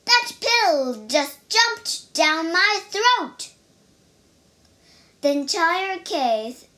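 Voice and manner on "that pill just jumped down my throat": loud, high, slow disbelief; baffled bear, stretching out the words; startled and bewildered, voice raised; confused outburst. A narrator's reading. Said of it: "He looked confused".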